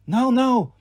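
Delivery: put-on high-pitched warning in a French accent; warning French villain. A narrator's reading. Doctor cuts off the boy, warning French villain. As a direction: caution him as a French villain. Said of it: "Doctor Fawn warned".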